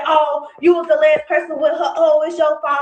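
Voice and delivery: mocking accusers. Ranting on live, mimicking Facebook accusers, mock loud accusation. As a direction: throw their blame back at them, mocking. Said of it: "steady saying".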